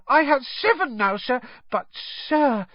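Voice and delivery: high, squeaky elf voice; an eager little elf; squeaky house-elf. A narrator's reading. House-elf Dobby speaking.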